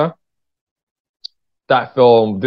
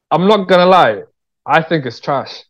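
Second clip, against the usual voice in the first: emphatic confession; 6 semitones higher than usual. Real, not acted. Admitting to the host he hates his film, emphatic.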